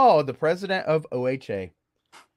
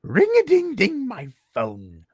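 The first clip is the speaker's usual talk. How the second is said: creepy voicemail voice. Retold or imitated. Leaving a creepy voicemail for the association president. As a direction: menace him playfully into calling back. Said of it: "And that was the voicemail".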